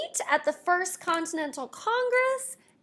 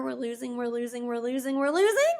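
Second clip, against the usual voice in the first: sinking then rising; 3 semitones lower, faster than usual. Shown as a demonstration. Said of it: "timeline acted".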